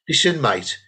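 deadpan Brummie put-down; Brummie accent. Acted. Woman heckling the comic, Brummie accent. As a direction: deliver it evenly in a Brummie accent. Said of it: "sounds better in a Brummie accent".

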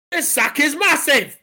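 amazed exclamation. Acted. Landlord calls out inside sack.

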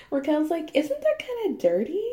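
squeaky laughing quote. Real, not acted. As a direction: laugh through the line. Quoting Raquel through laughter.

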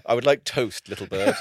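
a touch of loving pet-name tone; mock affectionate. Partner asking for toast, mock-tender. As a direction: say it sweetly, half laughing. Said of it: "It's how you say it".

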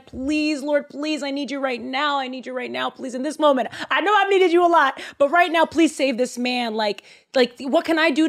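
high pleading, voice straining upward; desperate prayer. Acted. Elijah begs the Lord for the boy, desperate high plea. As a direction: beg the Lord, near tears. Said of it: "prays to the Lord".

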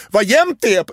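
unprompted praise. Retold or imitated. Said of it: "jag säger helt opåkallat".

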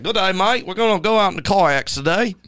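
high, hammed-up New Zealand accent. Telling friends how the New Zealand tour guide greeted him, in a New Zealand accent. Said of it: "from New Zealand".

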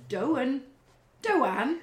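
"Doan" in two syllables, no T; dropped T. Acted. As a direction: copy "Doan", stretching the vowel. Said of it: "So don't is".

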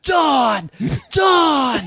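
frantic high shout across a crowd; panicked yell. Retold or imitated. Reporter calling to a colleague in a panicked shout.

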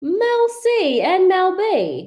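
high, loud, drawn-out British marvelling; hammed-up British wonder; fake British accent. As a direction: savour the names in mock British. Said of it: "with the British accent".

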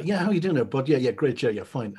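lightly mimicked casual bloke chat; a hint of mock matey interviewer; imitated man-to-man patter. Guest mimicking the host chatting to men, lightly voiced matey patter. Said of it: "when you talk to men".

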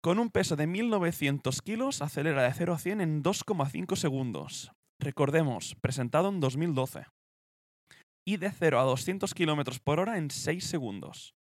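presenter reading out car figures; deliberate documentary-style read; scripted spec read-out. Acted. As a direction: read the figures in measured phrases. Reads out the car's figures.

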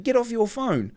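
put-on high Indian-accented command. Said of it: "My mate can do wicked accents".

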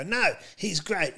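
indignant defending mother. Retold or imitated. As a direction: play a mum sticking up for her child. Acting out mother defending him at school.

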